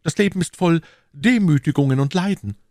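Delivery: a touch of gloom in a character's complaint; mildly sombre musketeer; gloomy. A narrator's reading. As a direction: lament life's suffering, understated. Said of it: "fuhr er düster fort".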